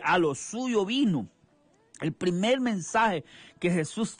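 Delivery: rhythmic sermon cadence, hermano at each phrase end; fervent evangelical preaching; radio preaching. Acted. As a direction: preach the word to the radio flock.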